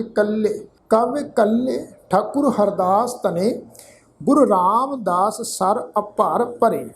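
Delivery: ਕਵ ਕੱਲੇ ਠਾਕੁਰ chanted slowly with long pauses; measured scripture reading; slow recitation. Shown as a demonstration. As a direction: model the verse for learners phrase by phrase. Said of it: "ਤੋ ਪਾਠ ਉਚਾਰਨ ਕਰਾਂਗੇ".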